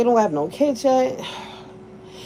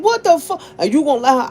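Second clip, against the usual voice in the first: indignant ex; 5 semitones higher, 4 dB louder, faster than usual. Retold or imitated. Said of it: "He was like".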